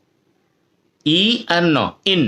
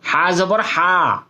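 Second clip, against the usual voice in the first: slow spelling demo; much slower than usual. Shown as a demonstration. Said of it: "বুঝে নেন ভালো করে".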